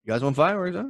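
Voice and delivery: high, taunting cop; tough cop voice. Retold or imitated. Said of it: "the Philadelphia police were just like".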